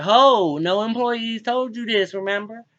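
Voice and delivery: high, loud, indignant retort at the boss; retold outburst at the boss. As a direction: throw it back at him, high and loud. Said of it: "I said".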